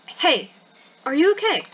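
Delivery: concerned check-in in a put-on British voice; soft British voice. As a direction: try a gentle British character voice. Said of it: "softer British voice".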